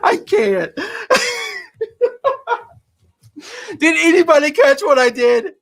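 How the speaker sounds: high, laughing through words. Real, not acted. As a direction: talk while cracking up. Laughing at own mistake.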